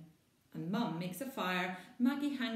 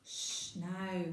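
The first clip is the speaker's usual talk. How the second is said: reassuring. Acted. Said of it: "Mum reassures her".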